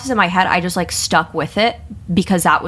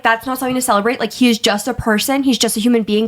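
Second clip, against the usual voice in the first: higher, lightly mocking the teacher; mock teacher rant; 5 semitones higher than usual. Imitating the teacher's lecture about the election, pitched up. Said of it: "he was like".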